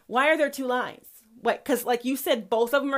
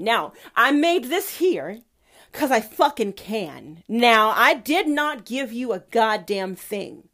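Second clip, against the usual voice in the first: stern God; 5 dB louder than usual. Acted. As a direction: lay down the law as an angry deity. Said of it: "says God".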